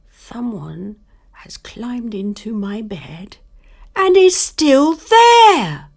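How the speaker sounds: put-on baby bear discovering the girl in his bed; baby bear whisper to squeal. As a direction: hush then squeal like an excited cub. Baby Bear finds Goldilocks.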